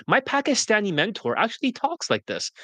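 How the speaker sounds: switched, lifted white-American tonality; white-person accent. Shown as a demonstration. Coach imitates mentor's whitewashed talk, white-person accent. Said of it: "I can switch my voice anytime".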